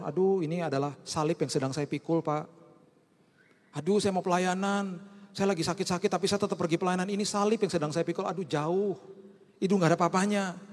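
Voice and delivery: mock whiny complaint. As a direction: whine about your burden, hammed-up a little. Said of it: "jangan pernah mengartikan ayat ini begini".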